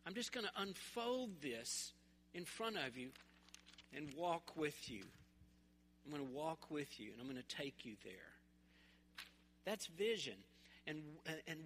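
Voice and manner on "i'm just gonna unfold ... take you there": God's voice. Retold or imitated. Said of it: "He goes".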